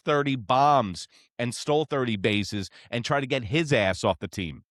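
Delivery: a real fan fired up over trade talk. Real, not acted. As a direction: get worked up demanding trades. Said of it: "I get so fired up".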